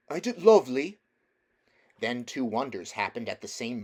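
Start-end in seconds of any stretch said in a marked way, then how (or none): 0.1-1.0 higher, louder cockney wonder; awed cabby. Acted. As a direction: marvel at the song like a simple cabman.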